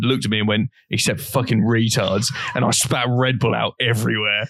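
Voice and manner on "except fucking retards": flat, dry punchline, slowed down; deadpan. Retold or imitated. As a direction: drop the line dead straight, no smile. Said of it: "then you deadpanned".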